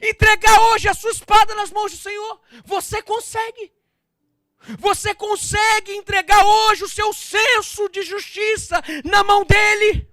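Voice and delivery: loud, rising to high shouted appeal; full-force preaching. Real, not acted. Preacher urging the listener to hand over the sword, fervent shout. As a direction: urge them on at full voice.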